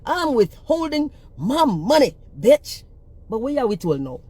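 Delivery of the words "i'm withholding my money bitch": mock defiant quote. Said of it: "And then you can say".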